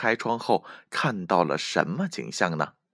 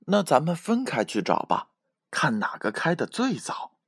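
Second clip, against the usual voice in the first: higher, lightly voiced little rabbit; suggesting rabbit; 8 semitones higher than usual. A narrator's reading. Rabbit suggesting a plan to bear, higher voice. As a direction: propose a plan in a small high voice. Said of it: "小白兔建议道".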